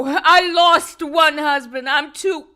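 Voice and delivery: slow and heavy; slow resolve. Acted. Wife declaring she won't lose another husband, slow and heavy. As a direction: weigh every word of grief.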